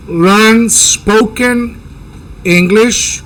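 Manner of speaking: "Learn spoken English" very slowly, each word separated; slow demo phrase. Shown as a demonstration. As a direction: spell it out slowly for the students. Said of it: "Ahí miren la". (frase lenta de demostración)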